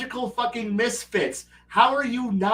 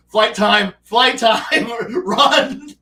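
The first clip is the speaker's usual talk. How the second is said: panicked players; 4 semitones higher, 7 dB louder, much slower than usual. Retold or imitated. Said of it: "They go".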